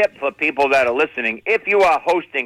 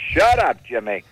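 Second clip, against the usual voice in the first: bossy aunt snapping; 4 semitones lower than usual. Acted. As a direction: silence your husband sharply. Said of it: "She controls the whole situation".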